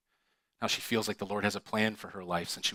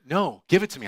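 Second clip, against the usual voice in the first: firm demand; 7 semitones higher, 6 dB louder than usual. Retold or imitated. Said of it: "she's like".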